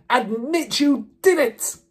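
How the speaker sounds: slow, high, forceful roar; roared demand. A narrator's reading. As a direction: roar it as a furious order. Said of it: "roared the Trunchbull".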